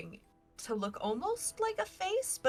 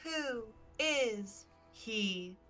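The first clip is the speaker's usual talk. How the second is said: slow eerie tree voice; much slower than usual. Acted. Tree repeats question slowly.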